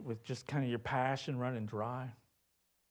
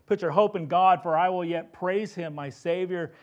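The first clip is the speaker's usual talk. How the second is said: fervent exhortation; 5 semitones higher, 7 dB louder than usual. Acted. Psalmist urging his own soul.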